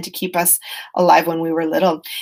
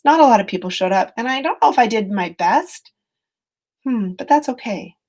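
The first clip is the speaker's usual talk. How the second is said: kind self-talk; 3 semitones higher than usual. Shown as a demonstration. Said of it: "My tone could shift".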